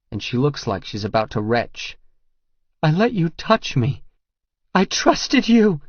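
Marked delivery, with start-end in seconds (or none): 2.8-5.8 high, loud anguished scream, slowing; screamed in pain. A narrator's reading. Betrayed Regan screaming at the man she trusted. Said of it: "Her last words are screamed at me".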